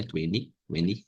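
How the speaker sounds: "Twenty" with dropped t, "tweni"; quiet model of "tweni"; preferred form. Shown as a demonstration. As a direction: soften the middle t away. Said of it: "Eu prefiro essa".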